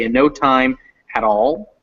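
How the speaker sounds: "at all" linked into one word; fused "at all". Shown as a demonstration. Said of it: "would kind of fuse together".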